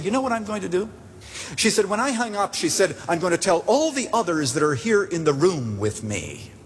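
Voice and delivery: put-on elderly woman, cheered up. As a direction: lift the pitch for her eager plan. Pastor voices the woman, joyful.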